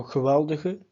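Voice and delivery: geweldige punched on wel, the other e reduced; stressed middle syllable. Shown as a demonstration. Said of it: "emphasis is on the indicated E".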